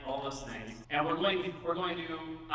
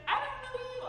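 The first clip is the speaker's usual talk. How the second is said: skeptical customer voice; 3 dB quieter than usual. Acted.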